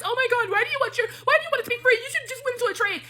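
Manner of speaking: mocking critics.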